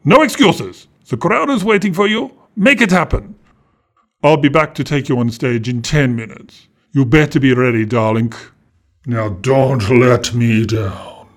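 put-on villain ordering the girl to perform; bossy villain. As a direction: push hard, then lean on the last words. Romania pressures Emerald.

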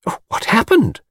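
high, breathless-with-interest gasp; agog admirer. A narrator's reading. Miss Taylor hanging on his tale, agog. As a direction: beg eagerly for the rest.

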